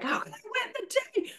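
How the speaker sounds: high chirpy mock enthusiasm; overly perky morning person; annoying cheerful person. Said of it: "Be that annoying person that wakes up and is like".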